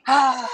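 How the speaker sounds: long audible sigh out; demo exhale sigh. Shown as a demonstration. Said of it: "we're gonna let it go with a".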